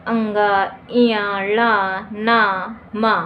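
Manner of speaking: each letter drawn out separately, sounded through the nose: अंगा, इया, ला, ना, मा; nasal letter sounds. Shown as a demonstration. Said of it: "नाक के माध्यम से ये ध्वनियाँ निकलती है".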